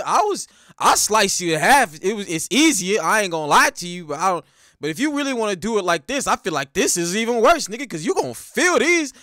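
mock threat that rises to a punchy finish; acted fighter's taunt. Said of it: "Igor's like".

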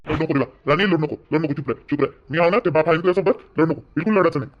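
calm her down gently; soothing father. Acted. Father hushes his crying daughter, tender.

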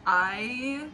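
soft, slowing, dejected voice; sad and defeated. Real, not acted. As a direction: sound crushed and worn out. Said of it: "feel so sad and defeated".

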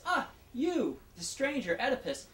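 mock-excited crowd hailing a stranger; excited townspeople. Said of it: "is so excited and says".

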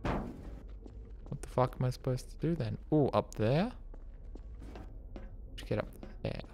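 creaky, quiet vocal fry; vocal fry endings. Real, not acted. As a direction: let the voice crackle into fry. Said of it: "My vocal fry is nuts".

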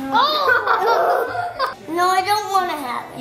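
laughing refusal. Real, not acted. Kid refusing barf bean.

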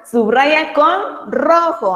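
very slow, word by word; slow dictation. Shown as a demonstration. Teacher slowly reads the exercise to the class. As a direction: spell out the instruction slowly. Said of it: "Dice ahora".

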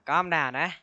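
shouted calm down at the jumpy object. Real, not acted. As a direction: raise the voice on the second calm down.

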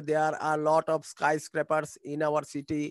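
very slow dictation pace; slow model sentence. Shown as a demonstration. Teacher modelling English sentence to class, very slow. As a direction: spell out each word slowly for learners. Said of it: "model sentence for students".

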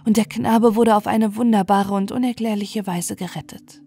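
ordinary delivery

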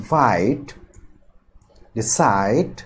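weight the last syllable of ফাইট and রিসাইট; রিসাইট with stress on its second syllable. Shown as a demonstration. Teacher listing verbs, second-syllable stress in ফাইট and রিসাইট. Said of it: "stress হবে দ্বিতীয় সিলেবলের উপর".

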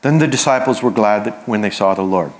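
mild mock British accent. Shown as a demonstration. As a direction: read it with a light, understated British accent. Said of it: "you have to read this with a British ac-, accent".

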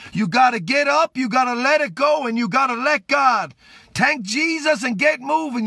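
rising, insistent prayer voice, pushing it out to the viewers; a street preacher praying over his live audience; fervent prayer. Real, not acted. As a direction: preach the healing prayer with full force.

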